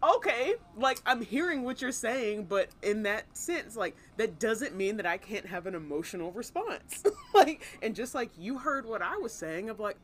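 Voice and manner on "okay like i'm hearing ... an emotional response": high, loud, tearful pleading; half-laughing tearful protest; retold crying. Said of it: "As you cry in the driver's seat".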